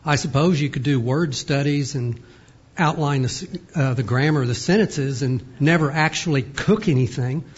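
talking while crunching; words around a crunchy bite; crunching chips. Real, not acted. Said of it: "Sorry for the crunching".

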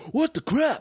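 very high-pitched, exasperated squeal; mock outraged cry. Imitating a friend losing at a game, mock outrage. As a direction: imitate a friend's disbelief, voice shooting up.

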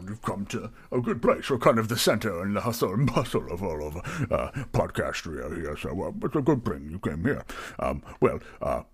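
fussy, lilting host patter; mildly flustered innkeeper being helpful; obliging tavern keeper. Acted. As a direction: accommodate the customer with nervous politeness. Plays Barry, flustered tavern keeper.

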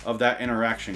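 ordinary delivery

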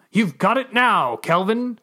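high, loud and slow call. Acted. Chevron calls up to the airborne narrator, loud. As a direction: shout it up to someone high above. Shouting up to a floater.

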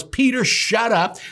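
high, slow, cutting him off; stern rebuke. Retold or imitated. God interrupting Peter, a slow high stern rebuke. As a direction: shut Peter up firmly. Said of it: "What he was saying was".

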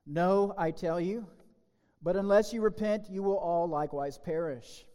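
first warning, pressed hard; emphatic warning. Acted. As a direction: hammer home the warning. Jesus' warning, first time.

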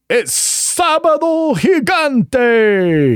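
very high, loud, slow Sábado Gigante call; Spanish TV announcer. Shown as a demonstration. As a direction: stretch it out like a game show host. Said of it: "what I would have gone with was".

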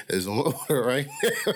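laughing. Real, not acted. Joking about ordering a jet.

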